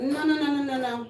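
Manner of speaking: a rising, emphatic string of no's; emphatic refusal. Real, not acted. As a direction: shut it down with repeated no's. Refusing the camp.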